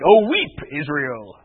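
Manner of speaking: a hint of an angry God, loud then dropping; lightly voiced wrathful lament, loud opening. Preacher imitating angry God to the congregation, mock-wrathful. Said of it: "normally when God is angry".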